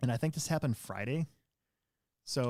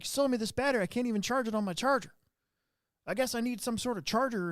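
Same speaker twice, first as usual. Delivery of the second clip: much higher, whiny mock of the customer; complaining customer; 11 semitones higher than usual. Customer whining about the battery, mock high voice. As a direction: imitate the indignant customer at the counter. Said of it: "he's like".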